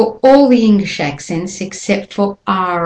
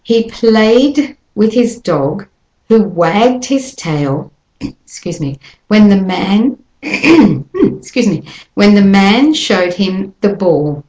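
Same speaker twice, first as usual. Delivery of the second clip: 1 slow model sentence. Shown as a demonstration. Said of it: "here's sentence number one".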